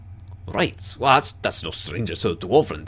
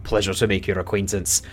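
guildmaster NPC; 3 dB louder than usual. Acted. Guild leader greets adventurers, loud and hearty. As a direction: boom out a gruff welcome to the party.

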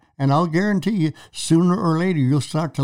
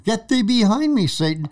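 sharp rebuke; 8 semitones higher than usual. Retold or imitated. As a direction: snap the rebuke like a sudden blow.

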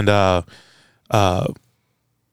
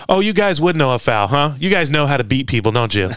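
mock taunt; 4 semitones higher than usual. Mocking a Dallas fan.

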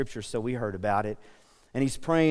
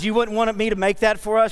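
mock pleading; 9 semitones higher, 6 dB louder than usual. Pleading with wife, retold.

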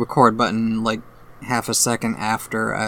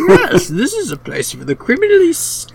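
laughing; 7 semitones higher, 5 dB louder than usual. Retold or imitated. Quoting the pit line while laughing.

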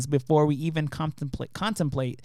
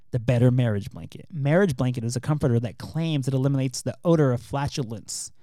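TV ad announcer read; commercial voice; 2 semitones lower than usual. Shown as a demonstration. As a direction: pitch the product like an infomercial. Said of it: "That's my commercial voice".

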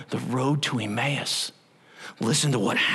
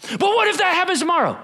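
anxious what-if; 5 dB louder, faster than usual. Acted.

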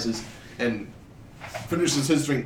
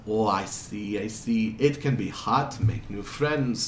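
put-on measured, muddled European accent; lightly voiced foreigner with a drifting accent; wandering foreign accent; 2 semitones lower, 3 dB quieter than usual. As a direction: unplaceable accent, conversational. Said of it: "his accent keeps jumping around a lot".

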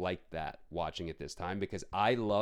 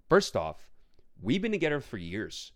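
louder, slow, indignant scolding; retold rant; 4 semitones higher, 4 dB louder, slower than usual. To Tina about the movie, exasperated slow lecture. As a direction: lay down the law to her. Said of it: "I'm like".

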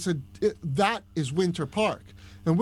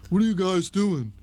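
put-on Long Island accent; 2 semitones higher, 4 dB louder than usual. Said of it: "I had a thick Long Island accent".

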